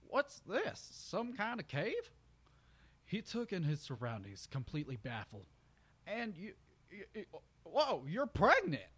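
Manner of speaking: surprised country stallion. Acted. Brayburn noticing the cave and her belly, high and shocked. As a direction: build from puzzled to astonished.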